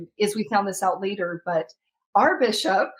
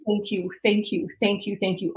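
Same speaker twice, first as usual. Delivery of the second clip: tearful thanks. Retold or imitated. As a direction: murmur thanks through tears. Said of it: "I just remember saying".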